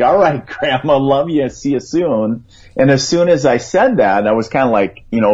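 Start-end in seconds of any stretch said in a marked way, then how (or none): 0.0-2.4 a hint of a six-year-old boy; lightly voiced young boy, higher; little boy voice. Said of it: "six-year-old little boy within me kinda came out and was like".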